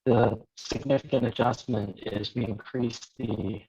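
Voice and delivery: glitchy underwater phone audio; choppy, garbled bad connection; breaking up call. Real, not acted. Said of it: "your audio is breaking up".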